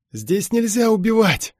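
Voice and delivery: high, loud, drawn-out cry; desperate cry. A narrator's reading. Beaten lad pleads for his life, crying out desperately. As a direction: cry out in despair. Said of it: "в отчаянии закричал парень".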